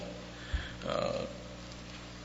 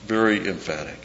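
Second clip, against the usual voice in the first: quiet echo; 5 dB quieter than usual. Shown as a demonstration. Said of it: "is very emphatic".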